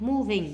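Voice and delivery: slow "moving" stressed on "mo"; first-syllable stress. Shown as a demonstration. Teacher marking word stress, "moving" stressed on the first syllable. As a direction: put the weight on MO in "moving". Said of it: "nhấn âm một".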